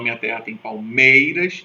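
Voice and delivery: verse read syllable by syllable, stress on palmeiras; scanning the verse. Shown as a demonstration. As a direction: count out "minha terra tem palmeiras" to the stressed syllable. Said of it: "eu só conto até o meio". (escansão marcando a tônica)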